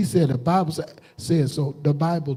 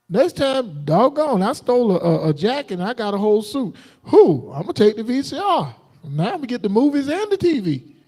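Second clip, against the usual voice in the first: higher, gleeful mock thief piling up loot; greedy thief; 4 semitones higher than usual. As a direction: play the thief getting greedier and greedier.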